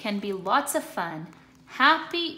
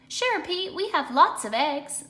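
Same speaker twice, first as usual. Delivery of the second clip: much higher, louder clucky chicken; 7 semitones higher, 5 dB louder than usual. Acted. Chicken answering Pete, high friendly hen voice. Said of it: "the chicken said".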